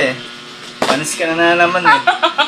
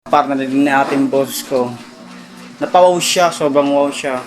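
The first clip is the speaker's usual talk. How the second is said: mock brag; 12 semitones lower, 5 dB quieter than usual. Low mock-proud brag.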